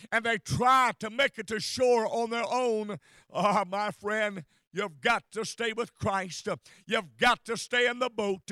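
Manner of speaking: rising, insistent preacher cadence; fervent sermon delivery building in force; preaching. Acted. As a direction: drive it home to the congregation. Preacher exhorting congregation.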